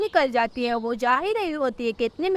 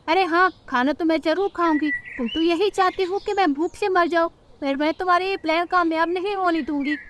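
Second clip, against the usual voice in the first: higher-pitched scheming mother-in-law; spiteful mother-in-law; 5 semitones higher than usual. Acted. Mother-in-law vows Rano's plan will fail, spiteful. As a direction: grumble defiantly in a higher voice.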